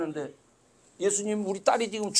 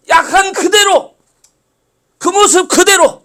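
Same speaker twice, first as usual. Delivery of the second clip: preaching at full force; 8 semitones higher, 15 dB louder than usual. Acted. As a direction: push the line hard from the pulpit. Preaching climax.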